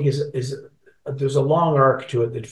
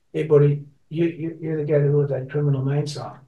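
a hint of Newfoundland accent on a retold line; lightly imitated Newfoundland accent; 2 semitones higher than usual. Stranger at the airport to the singer, lightly imitated Newfoundland accent. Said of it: "a Newfoundland accent".

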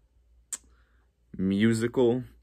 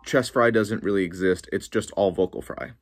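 dismissive skeptic; 4 dB louder than usual. Retold or imitated. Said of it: "a lot of people say".

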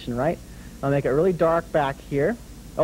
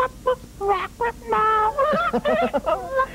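puppet giggle. Acted. Puppet dragon laughs at host.

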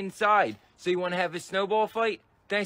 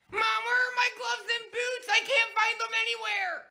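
put-on high boy voice calling across the house; kid calling out. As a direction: call out to mom for gloves.

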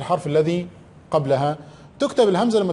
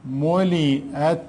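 ملئت drawn out slowly; slow dictation; 3 semitones lower, much slower than usual. Shown as a demonstration. Teacher to pupils, slow drawn-out ملئت. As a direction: stretch ملئت for the class. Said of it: "teacher dictating slowly".

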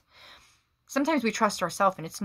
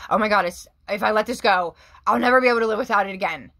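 louder, fast panicky inner voice; mock panic; 4 semitones higher, 5 dB louder, faster than usual. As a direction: blurt it like someone who can't let go. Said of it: "You're, like, freaking out. Like".

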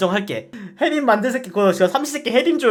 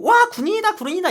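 put-on a much higher, childish cry of wonder; excited kid; 13 semitones higher than usual. Schoolkids spotting a soldier, excited childish shout. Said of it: "초딩들이 대놓고".

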